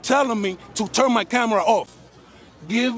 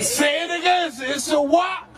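higher, pointed demand to repeat it; goading challenge; 3 semitones higher, slower than usual. Real, not acted. Man filming makes officer repeat "it's a public", goading challenge. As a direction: pounce on the admission, pitch raised.

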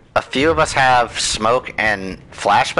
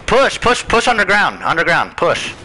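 excited urging; 6 semitones higher than usual. Real, not acted. Urging team forward in game.

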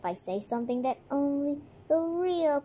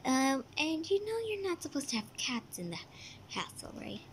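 whispering; 5 dB quieter than usual. Acted. Unvoiced whisper.

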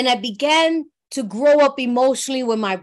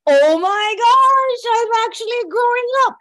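amazed realization; 8 semitones higher, 4 dB louder than usual. Retold or imitated. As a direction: marvel at yourself, voice lifting. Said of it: "I was like".

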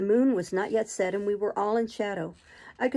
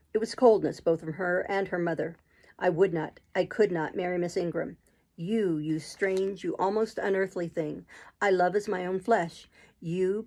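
Rochester, ardent and insistent. Acted. Rochester convinces doubting Jane of his love, lightly voiced and insistent. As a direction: argue his case, then entreat.

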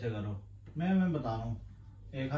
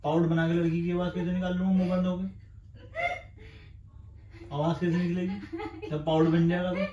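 laughing protest; 3 semitones higher than usual. Real, not acted. Protesting dare while laughing.

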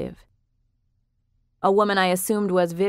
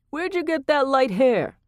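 lightly voiced Frankie; 7 semitones higher than usual. A narrator's reading. Frankie asks Ray.

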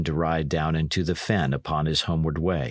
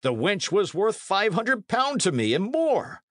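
high-pitched indignant outcry; Sir Daniel, exasperated; 12 semitones higher than usual. A narrator's reading. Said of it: "cried Sir Daniel".

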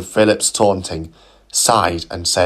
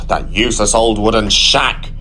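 grumbling. Acted. Philip grumbling to Gladys, mild grouch. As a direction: gripe about the rival. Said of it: "grumbled Philip".

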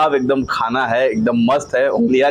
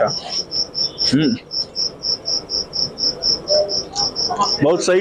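speaking while chewing; 4 dB quieter than usual. Real, not acted. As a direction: mouth partly full. Seen 0: bites paneer at -1.0, lips closed and moving while he hums.

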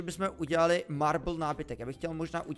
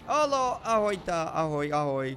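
calling out hello; 5 dB louder, slower than usual. Real, not acted. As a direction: call over to the animals. Greeting animals in the game.

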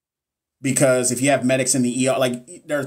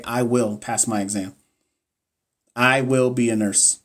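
slow, calm I will pass my exam; affirmation demo; slower than usual. Shown as a demonstration. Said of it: "Just say".

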